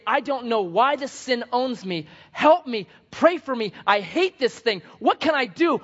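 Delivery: high, loud acted desperation; imitated crying plea. Sinner broken by sin pleads with pastor, imitated anguish. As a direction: beg for help, anguish acted out. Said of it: "they are crying and they're saying".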